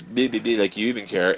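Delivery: quiet muttering under the breath; retold mutter. She turns away, muttering. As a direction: mumble it into the room. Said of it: "under her breath".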